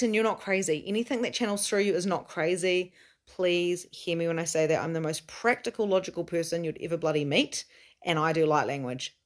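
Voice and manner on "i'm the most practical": usual speaking voice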